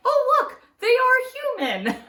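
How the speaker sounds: high, loud, laughing through the words; gleeful laughter at someone's slip. Real, not acted. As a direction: crack up while saying it. Relishing a smart person's mistake.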